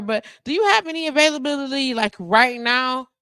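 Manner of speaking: high, fast mock caller; pushy caller voice. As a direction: rattle it off like a new client begging for a slot. Acted pushy new client call.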